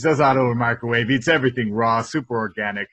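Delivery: ordinary talk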